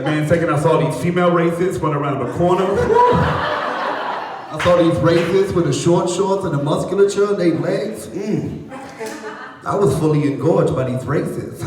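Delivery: Mike Tyson impression. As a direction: lightly mimic a boxer ogling the runners. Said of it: "the word Mike Tyson uses".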